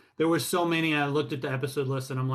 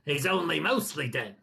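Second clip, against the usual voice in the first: lightly hammed-up movie character quote; playful character impression; Billy Crystal; 5 semitones higher than usual. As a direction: quote a comic film character, rising at the end. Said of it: "I'm Billy Crystal".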